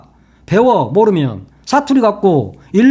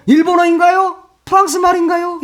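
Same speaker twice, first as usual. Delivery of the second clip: much higher, a put-on snide question; mocking the anchor; 9 semitones higher than usual. Commentator parodying what the anchor may say on YouTube, high and mocking. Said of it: "그래가지고".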